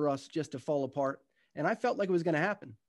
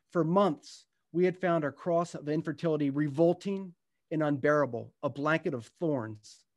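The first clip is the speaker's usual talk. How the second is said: unhurried storytelling read to an audience; gentle book-reading voice; reading from his book. Acted. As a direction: read it like a memoir passage, letting moments land. Reads aloud from his book.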